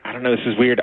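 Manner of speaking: normal talking voice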